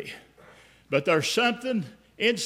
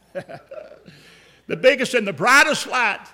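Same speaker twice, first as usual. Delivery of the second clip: laughing wonder; 2 semitones higher, 5 dB louder, slower than usual. Shown as a demonstration. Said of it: "repeats with laugh, slower".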